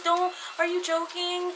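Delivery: high, drawn-out mock-weepy plea; squeaky tearful disbelief, retold; tearful imitation. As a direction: imitate a crying friend in slow, high-pitched disbelief. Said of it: "She starts crying".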